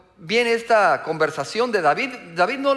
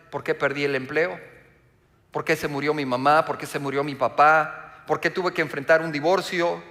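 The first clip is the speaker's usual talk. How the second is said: anguished self-questioning. Acted. Preacher voices people questioning their hardships, mild building anguish. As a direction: let each question climb on the last, lightly pleading. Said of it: "Y nos preguntamos".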